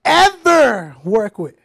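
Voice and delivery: "ever" drawn out very slowly; slow, insistent weight on "ever"; stress on EVER. Real, not acted. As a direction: stretch out "ever" to hammer the point. Insisting on the question's condition.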